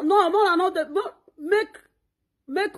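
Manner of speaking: high laughing protest; laughing outburst. Real, not acted. Mocking Mama Laura's rivals, laughing high. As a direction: break into laughter while protesting.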